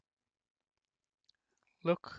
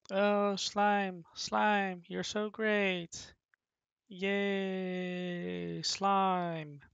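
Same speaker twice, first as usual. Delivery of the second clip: higher, gushing little goblin voice; adoring goblin; 5 semitones higher, much slower than usual. Acted. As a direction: fawn over slime like a tiny fan. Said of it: "Here the goblin goes".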